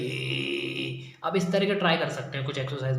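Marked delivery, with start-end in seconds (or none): 0.0-1.0 much lower, deep hum-like ये; deep voice exercise. Shown as a demonstration. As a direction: sink it deep into the chest. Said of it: "ये वाली जो आवाज़ है ना".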